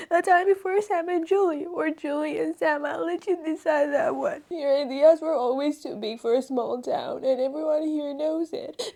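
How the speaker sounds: reading the letter while choking up; reading through tears. Real, not acted. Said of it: "I'm expecting to cry".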